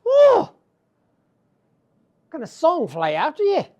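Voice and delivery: loud, high, slow exclamation; calling out. Acted. Tig calling out in wonder at the song. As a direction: call it out in wonder.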